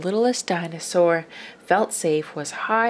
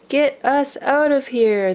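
higher, louder yell from everyone; group yell; 7 semitones higher, 4 dB louder than usual. A narrator's reading. The whole family stuck in the mud, yelling. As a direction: shout together for rescue. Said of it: "they all yelled".

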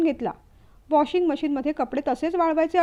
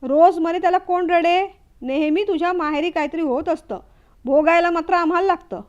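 angry mother-in-law; 3 semitones higher, 5 dB louder than usual. Acted. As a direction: lash out at the daughter-in-law. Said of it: "सासूबाई चिडल्या".

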